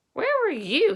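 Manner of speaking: sharp demand. A narrator's reading. Bully pressing Palmer about last night, high and sharp. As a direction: snap the question back. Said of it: "bully repeats the question".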